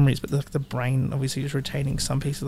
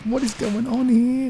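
bewildered; 9 semitones higher, slower than usual. Retold or imitated. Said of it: "would have been like".

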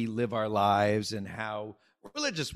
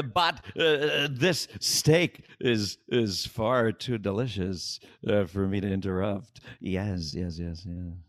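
Jeff Goldblum impression; 2 semitones lower than usual. Comic plays Jeff Goldblum scolding a telemarketer at dinner, halting. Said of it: "Jeff Goldblum, uh, speaking to a telemarketer".

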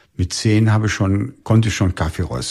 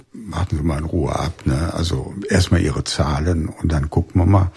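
imitating the landlord; 5 semitones lower than usual. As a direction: settle him down like a cautious landlord. Landlord's calm reply, voiced.

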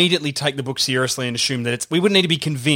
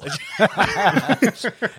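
demonic laugh; 3 semitones higher than usual. Pretend. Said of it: "I keep doing that voice".

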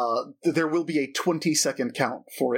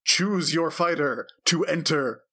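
booming voice; much slower than usual. Acted. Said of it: "a booming voice echoes from all three of its skulls".

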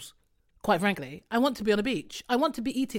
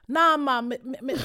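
stumbling mock Jamaican attempt; badly faked Jamaican accent; 3 semitones higher than usual. Tourist failing to pass as local, badly faked Jamaican accent. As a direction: fumble through a bad Jamaican accent. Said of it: "put on your best Jamaican accent".

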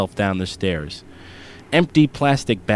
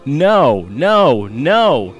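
loud, high tantrum yelling; furious shout; 6 semitones higher, 5 dB louder, slower than usual. Acted. Boy shouting at his father, furious high yell. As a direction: scream it at dad like a furious kid. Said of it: "all the while shouting".

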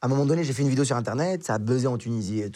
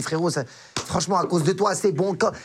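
mild retold anger; 5 semitones higher than usual. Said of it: "je me vénère".

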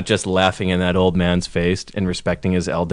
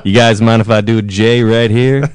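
McConaughey drawl; 4 dB louder than usual. Retold or imitated. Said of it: "You're doing McConaughey now".

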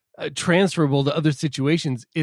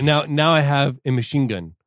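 quoting the line. Retold or imitated.

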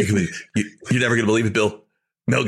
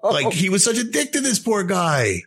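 laughing; 10 semitones higher than usual. Real, not acted. Laughing while retelling the outtake.

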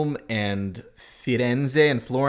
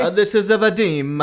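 hammed-up Italian, higher and louder; mock Italian accent; 9 semitones higher, 5 dB louder than usual. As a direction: add a playful Italian "a" before the name. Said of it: "we're not making fun of Italians".

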